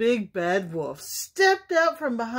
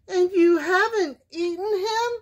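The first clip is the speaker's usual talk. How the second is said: high-pitched questioning duck; high, disbelieving duck voice; doubtful mother duck; 10 semitones higher, faster than usual. A narrator's reading. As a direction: ask warily, still suspicious.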